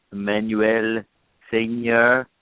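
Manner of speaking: French pronunciation of the names; French accent. Pretend. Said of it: "said Betty Buckley in an American accent".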